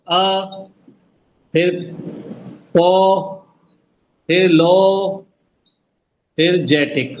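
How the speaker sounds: अ, पो, लो, जेटिक one at a time; long pauses round अ, पो and लो; syllable counting. Shown as a demonstration. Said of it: "चार हो गए देखो".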